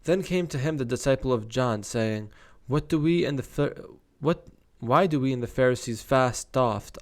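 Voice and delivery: measured Bible read-aloud; scripture reading. Acted. Reader sharing the disciples' question, scripture reading. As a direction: read the verse out clearly and deliberately.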